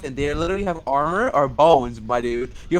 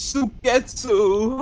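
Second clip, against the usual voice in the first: mock swooning; 5 semitones higher, slower than usual. Swooning over character name.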